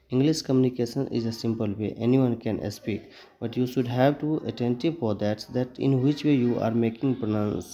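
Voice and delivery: slow, deliberate English lines; a teacher switches to careful, slow English. Shown as a demonstration. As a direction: speak each English word slowly and clearly. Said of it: "teacher speaks slow English".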